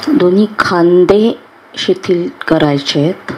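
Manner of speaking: unhurried meditation guide with long pauses; guided meditation. Acted. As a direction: guide them calmly into relaxation, phrase by phrase.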